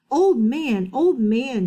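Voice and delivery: loud call, falling on each; shouting. Acted. Chang shouting to wake the old man, loud. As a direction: call to him from afar. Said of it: "shouted Chang".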